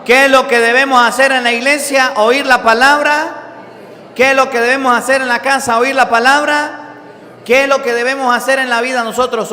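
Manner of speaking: rally the congregation with the call; preaching at full force. Acted. Predica a toda voz. (predicación enérgica y fuerte)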